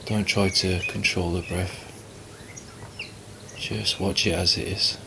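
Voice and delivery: calm, unhurried meditation guidance with long pauses; guided meditation. Acted. Teacher guiding listeners to relax and watch the breath, calm meditation voice. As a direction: ease them gently into stillness, leaving space between phrases.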